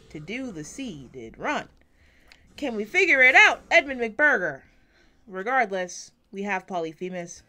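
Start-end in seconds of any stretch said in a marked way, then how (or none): 2.6-4.6 louder and higher, a frustrated call-out; fed-up gamer yelling a question; exasperated loud plea. Real, not acted. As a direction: shout the question at the screen in exasperation. Calling out to the game in frustration.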